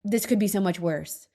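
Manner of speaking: a lightly mocking gloomy voice; mock doom-sayer. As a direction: send up the person who always says this. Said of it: "I'm not a".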